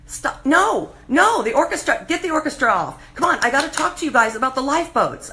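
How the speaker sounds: high, pressing call to stop the music; urgent plea. Retold or imitated. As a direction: cut them off, urgently. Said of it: "And I'm like".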